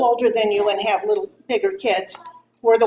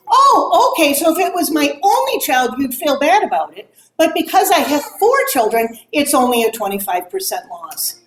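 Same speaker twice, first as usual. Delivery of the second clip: retold sarcastic comeback; 3 semitones higher, 3 dB louder than usual.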